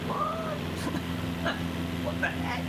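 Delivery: mock disbelief with a laugh; baffled. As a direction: react totally thrown by the greeting. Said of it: "I'm like".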